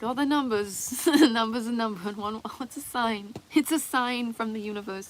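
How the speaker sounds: hammed-up believer seeing signs everywhere; mock omen seeker. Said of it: "being like".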